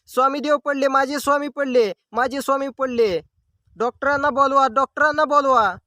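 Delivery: retold wailing. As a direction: lightly act out an old devotee's frantic lament. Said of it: "मोठ्याने आक्रोश करत". (हलक्या अभिनयात आजीचा आक्रोश)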